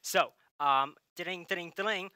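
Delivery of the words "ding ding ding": phone ringing noise. Pretend. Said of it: "I'm getting a call on my phone".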